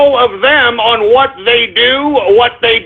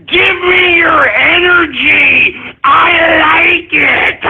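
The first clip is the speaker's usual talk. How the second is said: slow, drawn-out shouted gloating; gloating villain taunt; 3 semitones higher, much slower than usual. Acted. Streamer taunting his trolls, slow villainous gloat. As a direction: savour every word like a cartoon villain.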